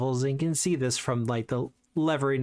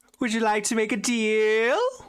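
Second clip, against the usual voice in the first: annoying, grating put-on voice, pitched higher; 9 semitones higher, 4 dB louder than usual. Voicing a traveling trader greeting the players: annoying character voice. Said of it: "why are you doing such an annoying voice?".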